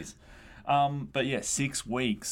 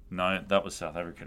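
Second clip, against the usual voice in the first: usual speaking voice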